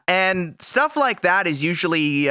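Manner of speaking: ordinary delivery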